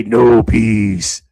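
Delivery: low, loud alien growl; Independence Day alien. Retold or imitated. Mimicking the Independence Day alien to tease Joe, low and loud. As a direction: do the movie alien's doom line. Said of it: "You sound like the alien guy from, from Independence Day".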